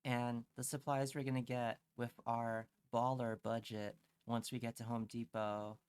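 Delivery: normal talking voice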